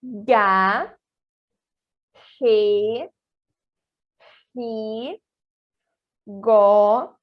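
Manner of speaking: drawn-out syllables with throaty G in "re, ri"; Spanish G syllables. Shown as a demonstration. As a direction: demonstrate each syllable separately, "re, ri" rasped from the throat. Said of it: "seria a seguinte forma".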